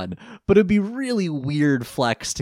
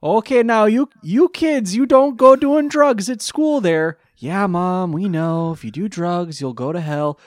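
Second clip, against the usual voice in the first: much higher, louder nagging mom, jumping to a shriek; shrill mom lecture; 10 semitones higher, 9 dB louder than usual. Acted. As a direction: scold the kids like an overwrought mother. Parody mom lecturing kids.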